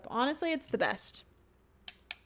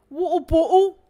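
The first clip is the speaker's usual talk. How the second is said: squeaky claw clip voice; 5 semitones higher, 7 dB louder than usual. Pretend. Claw clip voice finds bottle.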